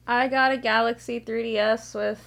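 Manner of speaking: a little tipsy and rambling. Real, not acted. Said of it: "I'm a little tipsy right now".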